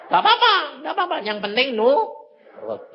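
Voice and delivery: high, fast it's-fine; eager reassurance. Real, not acted. Preacher reassuring sleepy beginners, high and fast. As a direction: brush the worry away quickly.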